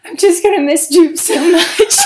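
put-on high, loud baby-talk pet voice; dog voice. Wife telling husband she'll miss the dog, in high pet voice. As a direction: coo it like talking to your dog. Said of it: "We have this dog voice".

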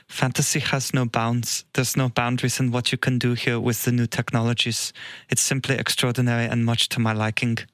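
put-on German accent, calm and deliberate; Werner Herzog German accent. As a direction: read the quote in a German accent. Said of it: "everyone give me shit for my German accent".

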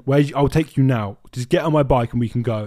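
loud, pushy hawker's call; imitating pushy taxi drivers. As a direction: badger her to get on the bike. Taxi men pushing the girl.

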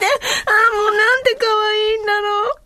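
very high, melting over how cute; gushing adoration. Real, not acted. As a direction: gush in a high, overcome voice. Gushing over her son's childhood voice.

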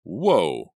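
loud exclamation. Acted. Jake grabbing Danny.

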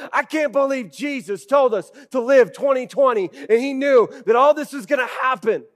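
loud, exasperated griping about being sent out; indignant complaint. Retold or imitated. Preacher voicing disciples who rant at Jesus, loud and indignant.

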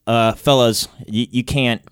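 hesitant, nervous and meek; timid nervous voice. Retold or imitated. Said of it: "how white you get when you're".

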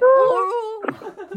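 high muffled mock "oh"; muffled mock cry. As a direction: imitate a cry through a full mouth. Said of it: "わーとかじゃなくて". (口ごもった真似の声)

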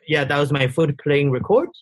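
put-on low-pitched French Tunisian accent. Designer explaining his voice memo to a friend, French Tunisian accent. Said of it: "That sounds French Tunisian".

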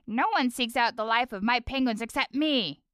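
lightly voiced cranky old wizard king; a hint of the Ice King scolding. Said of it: "That's my Ice King voice".

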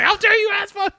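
a hammed-up how-dare-you; mock outrage. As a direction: pretend to be offended, half laughing. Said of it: "He's like".

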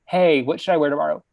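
rapid, mock-anxious texting voice; imitating a clingy friend's texts, quick and breathless; mock needy texts. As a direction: rattle off the needy texts fast. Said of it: "her texting you every night, being like".

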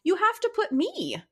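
half-laughing, set him straight; exasperated plea. Retold or imitated. Wife scolding husband in retelling.

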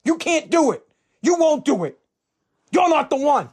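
slow, cutting father's verdict; a hint of a stern father, building; stern dad. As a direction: say it slowly, then push the last lines harder. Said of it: "he just goes".

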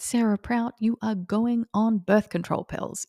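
a hint of a mother laying down the law; retold scolding mum. Mum's reaction to daughter's dream, retold.

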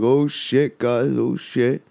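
lightly acted panic; mock alarm. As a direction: imitate a friend suddenly losing his nerve. Friend backs up scared, retold.

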